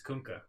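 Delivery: Kunkka with an "oo" vowel; corrected pronunciation. Shown as a demonstration. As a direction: say Kunkka as "KOONK-uh", matter-of-fact. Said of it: "how to pronounce his name".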